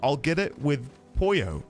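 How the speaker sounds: pollo said exactly like polo, with an L sound. Retold or imitated. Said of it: "said it like polo".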